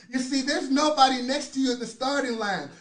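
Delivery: ordinary talk, nothing marked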